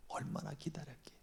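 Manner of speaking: whispered softly; whispered echo. Shown as a demonstration. Preacher whispering how long he waited. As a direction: breathe the words out.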